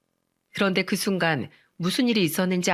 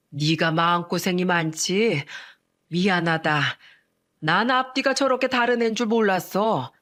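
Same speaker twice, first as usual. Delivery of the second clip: comforting mother-in-law. Acted. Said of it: "저를 다독이면서".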